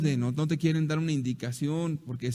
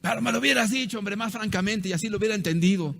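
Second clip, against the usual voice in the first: mock protest; 5 semitones higher, faster than usual. Husband protests to wife.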